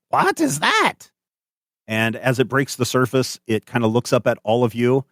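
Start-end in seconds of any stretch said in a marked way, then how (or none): 0.1-1.1 high, slow astonished gasp; Doctor West. Acted. Doctor West spotting the horn, high and slow. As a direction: marvel at it in a high voice. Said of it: "you can see Doctor West go".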